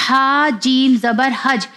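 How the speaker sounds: final j of حج sounded twice; حج with a pressed, echoing j; qalqalah on حج. Shown as a demonstration. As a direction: spell slowly and let the j in حج rebound. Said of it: "sound دو بار آئے گا".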